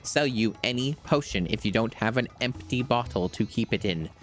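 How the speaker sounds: the proud potion seller refusing a weak traveler. Acted. Shopkeeper refusing a customer, in a haughty merchant voice.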